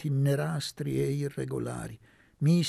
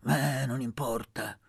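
slow, gentle reassurance; motherly. Acted. Aunt forgiving Elpidio, motherly and slow. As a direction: soothe him like a mother. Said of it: "guardando Elpidio maternamente".

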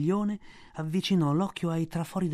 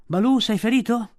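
louder, higher concern; worried question; 6 semitones higher, 6 dB louder than usual. A narrator's reading. Bagheera anxiously asks Balù, worried. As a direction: ask with alarm.

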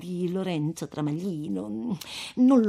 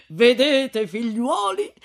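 laughing gloat; 6 semitones higher, 7 dB louder, slower than usual. Acted. Priest gloats over tyrant's death.

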